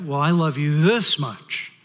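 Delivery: lightly voiced father, slow and drawn out; daddy rabbit. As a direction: top the child with a slow, stretched THIS. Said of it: "So the father says".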